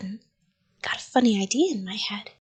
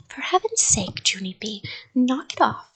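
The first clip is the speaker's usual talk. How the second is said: yelled; 3 semitones higher than usual. Acted. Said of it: "she yelled".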